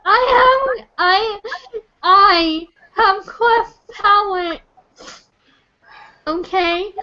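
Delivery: crying. Real, not acted. Upset caller breaking down.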